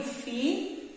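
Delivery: "fi" then pause then "lha"; teacher splitting a word; split syllables. Shown as a demonstration. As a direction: break "filha" into two slow syllables. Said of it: "vou separar ela assim".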